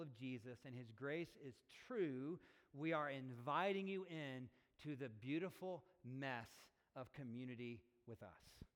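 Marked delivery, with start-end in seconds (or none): 5.1-6.5 weight on both "beautiful" and "mess"; stress on beautiful mess. Real, not acted. Pastor inviting people into community, stressing "beautiful mess". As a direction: set "beautiful" and "mess" apart with emphasis. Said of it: "Emphasis on the word beauty".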